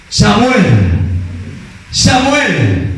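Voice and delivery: God's voice calling a name. Acted. Preacher voicing God calling the boy Samuel, calling out. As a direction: call the name out, drawn and clear.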